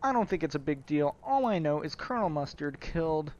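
hammed-up Brooklyn grievance; mock-aggrieved Brooklyn accent. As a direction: complain in a put-on Brooklyn accent. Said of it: "a Brooklyn accent anyway".

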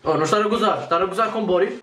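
put-on Russian accent. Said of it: "com a famosa voz de russo".

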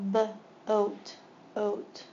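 segment by segment; sounding out boat. Shown as a demonstration. Teacher sounding out a word for students, segmented. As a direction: split boat into B and oat. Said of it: "two vowels together".

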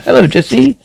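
lilting French accent, lightly put on; hammed-up French accent. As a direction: play it as a French woman making a grand speech. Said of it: "speaking French accent".

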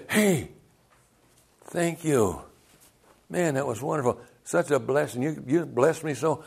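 soft, gushing mock gratitude; grateful. Preacher to people yelling at him, gushing thanks. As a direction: thank them sweetly and quietly.

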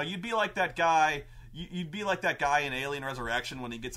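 ordinary talk, nothing marked

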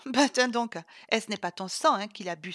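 rire moqueur, plus fort; moqueuse. Acted. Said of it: "se moqua Sylvie". (moqueuse, en riant)

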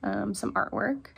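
groggy just-woke-up voice; sleepy morning rasp. Real, not acted. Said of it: "morning voice for sure".

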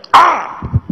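high bright "Ah!"; pleased cry. Retold or imitated. Narrator imitating the smiling attendant, high pleased cry. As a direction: burst out pleased.

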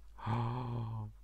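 drawn-out gasp of admiration; delighted gasp. Real, not acted. Vlogger opening a craft parcel, delighted gasp. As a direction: gasp at a lovely surprise.

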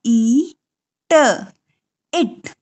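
ई then ट, blended into इट, rising; sounding out. Shown as a demonstration. Teacher modeling a child blending sounds, slow. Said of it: "बोल पाएगा".

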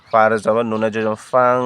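drawn-out recitation ending in nasal ফাং; teacher spelling, ফাং with nasal ng; slow spelled nasal reading. Shown as a demonstration. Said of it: "অনুসুকার ফাং".

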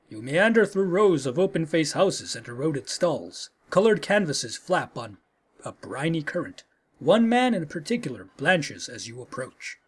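measured game narration, lightly performed; story narration. A narrator's reading. Player reading the scene at the docks to viewers, story narration. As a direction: read it out like a storyteller.

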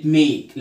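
"make" slowly, with a stretched ay; long a. Shown as a demonstration. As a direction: draw out the letter-name a in "make". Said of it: "الحالة الأولى من اللونج A".

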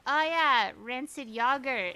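imitating an Irishman, "yogurt" with a short O; mock Irish accent, loud opening. Streamer quoting the Irish tattoo artist, imitated Irish accent. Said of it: "he has an accent".

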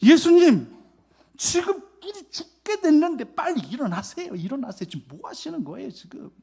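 high, loud, frantic cry to wake someone; panicked plea. Retold or imitated. Terrified disciple pleading with sleeping Jesus, loud and frantic. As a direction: beg him to wake up as the boat sinks. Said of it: "지금 예수님 향해서 이런 마음이에요".

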